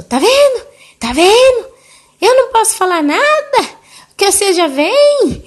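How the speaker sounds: high, loud, hammed-up indignant rant; acted outburst. Grandmother lashing out at her daughter over nothing, acted indignant outburst. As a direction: play the aggrieved mother blowing up, voice shooting up.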